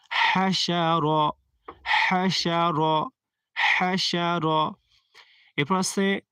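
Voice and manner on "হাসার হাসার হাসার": হাসার with light হা pushed from the throat; গলায় চাপ, বাতাস ছেড়ে; throat-pressed breathy ha. Shown as a demonstration. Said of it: "বাতাস ছেড়ে পড়বেন".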